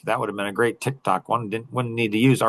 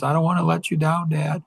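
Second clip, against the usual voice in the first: tearful daughter; 5 semitones higher than usual. Retold or imitated. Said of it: "and she's crying".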